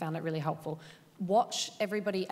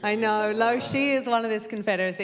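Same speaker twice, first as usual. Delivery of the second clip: Helena's monologue; 3 semitones higher, 7 dB louder than usual. Retold or imitated. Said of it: "Helena's monologue from Midsummer Night's Dream".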